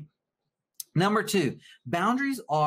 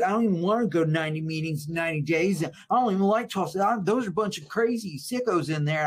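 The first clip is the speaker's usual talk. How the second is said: fast, higher, a hint of a sulky self-pitying addict; mock the complaining victim, rushing the excuses; lightly voiced put-upon husband griping about meetings; whiny victim; 3 semitones higher than usual. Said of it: "like a little victim".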